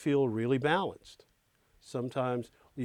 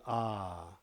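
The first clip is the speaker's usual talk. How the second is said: satisfied sigh; 6 semitones lower, 7 dB quieter than usual. Pretend. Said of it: "and then finally saying".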